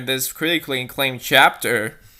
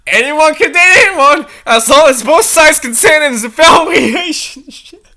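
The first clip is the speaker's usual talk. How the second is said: high voice; 11 semitones higher, 9 dB louder than usual. Acted. Narrator explaining, voice pitched up.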